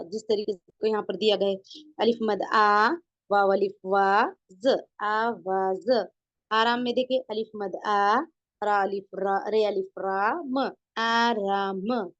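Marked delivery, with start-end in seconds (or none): 2.0-6.1 long held आ and वा, separate ज in आवाज; letters joined up. Shown as a demonstration. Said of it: "हरूफ की जो आवाज है". 7.2-12.1 long held आ and रा, separate म in आराम; letters joined up. Shown as a demonstration. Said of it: "इस तरीके से".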